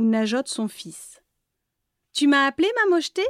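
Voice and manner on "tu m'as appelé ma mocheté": gentle voice. Acted. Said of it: "d'une voix douce".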